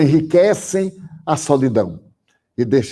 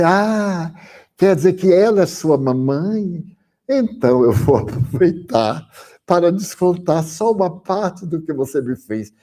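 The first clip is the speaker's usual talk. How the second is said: sorrindo; 4 semitones higher than usual. Retold or imitated. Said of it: "Eu então sorri e disse".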